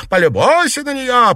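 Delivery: high, loud indignant cry; aunt shouting to the mother. A narrator's reading. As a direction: egg the mother on. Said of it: "подхватила тётка".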